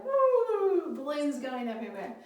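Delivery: playful imitation of excited kids. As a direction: play the animated kids. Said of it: "and they're like".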